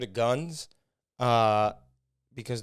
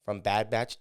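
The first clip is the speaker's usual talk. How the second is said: usual speaking voice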